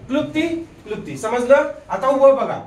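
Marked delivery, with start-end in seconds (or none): 0.1-1.2 क्लुप्ती said quickly and softly, no r; right pronunciation, quick and soft. Shown as a demonstration. Teacher models the r-less क्लुप्ती for the class, quick and soft. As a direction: model क्लुप्ती without the r, briskly. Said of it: "इथं र चा उच्चार करायचा नाही".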